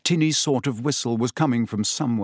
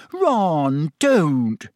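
higher, louder angry warning; angrily; 4 semitones higher, 4 dB louder than usual. Acted. Hermione defends her cat against Ron, angry. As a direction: stop him hard. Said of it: "said Hermione angrily".

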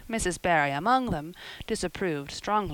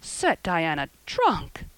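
stunned Marilla; 3 dB louder, slower than usual. Acted. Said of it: "when she found her voice".

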